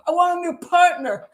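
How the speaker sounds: playful laughing gripe; joking complaint. Retold or imitated. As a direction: tease your teammate while laughing. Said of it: "And he goes".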